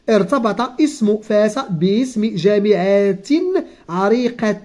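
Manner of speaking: slow, careful reading of a textbook passage; reading aloud. Acted. Teacher reading the lesson text slowly to the child. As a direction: read each word out slowly for the pupil. Reads the exercise sentence.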